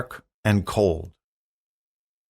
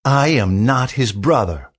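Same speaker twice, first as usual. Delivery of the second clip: angry; 3 dB louder than usual. Acted. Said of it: "said the king angrily".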